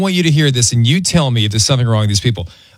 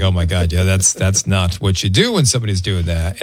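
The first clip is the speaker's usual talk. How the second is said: lower, mock-serious husband; imitating Aaron; 8 semitones lower than usual. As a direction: drop the pitch for Aaron. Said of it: "And Aaron's like".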